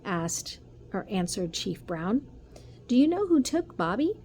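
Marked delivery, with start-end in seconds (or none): 2.9-4.2 alarmed. Acted. Mother alarmed asking.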